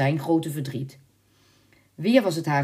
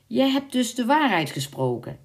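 higher, pleased exclamation; satisfied; 9 semitones higher than usual. A narrator's reading. Knight to the servant who told the truth, satisfied. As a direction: say it with contented approval. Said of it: "zei de ridder voldaan".

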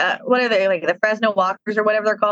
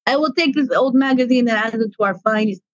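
slow Russian-accented Trash Monster; Russian accent, deliberate and unhurried. Shown as a demonstration. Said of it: "I do a Russian accent semi-regularly".

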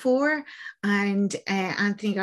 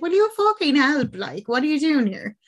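angry outburst; 6 semitones higher than usual. Acted. Priest yelling at cowering journalist to help, angry. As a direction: snap at her in frustration.

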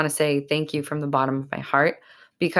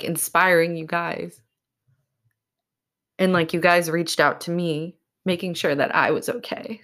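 choked up; 2 semitones higher than usual. Real, not acted. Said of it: "I'm really getting choked up".

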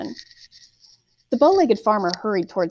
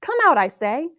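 shouting; 6 semitones higher than usual. A narrator's reading. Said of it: "the farmer shouted".

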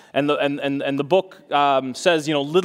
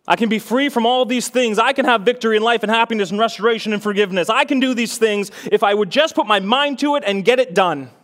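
higher, driving run of mock confidence; self-assured pep talk; 5 semitones higher, faster than usual. Preacher voicing someone betting on themselves, mock confident pep talk. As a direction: act out someone talking themselves up.

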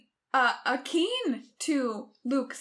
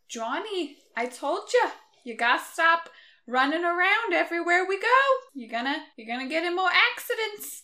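scolding mom; 5 semitones higher, faster than usual. Acted. Mom scolding son in sketch.

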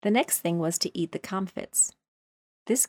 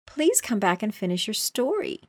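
calling after; 4 semitones higher, 3 dB louder than usual. Acted. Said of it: "Alice called after it".

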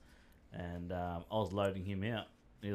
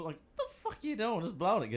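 imitating mate; 10 semitones higher than usual. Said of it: "he's going".

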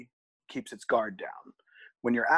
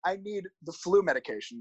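higher, insistent retold protest; exasperated; 7 semitones higher than usual. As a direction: pitch up in disbelief. Retold argument at health center.

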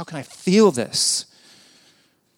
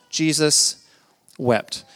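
slow and weighty; much slower than usual. Shown as a demonstration. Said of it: "reading that verse is pretty quick".

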